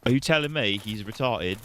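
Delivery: mock British accent. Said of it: "half British".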